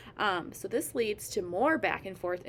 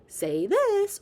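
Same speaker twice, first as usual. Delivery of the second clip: demanding prompt; 12 semitones higher, 8 dB louder than usual. Retold or imitated. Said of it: "Don't say".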